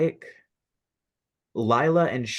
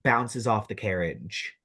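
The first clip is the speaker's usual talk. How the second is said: measured, dramatic scene-setting; game master narration. Acted. Game master describes a tree attack to players, dramatic narration. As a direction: narrate the action with punchy key words.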